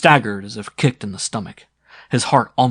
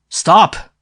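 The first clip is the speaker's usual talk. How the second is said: shout; 11 dB louder than usual. A narrator's reading. Sim halts charging crowd.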